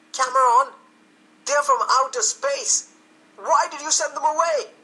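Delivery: high, loud alarmed shout; screaming. A narrator's reading. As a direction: scream the news at the sheriff. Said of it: "I screamed".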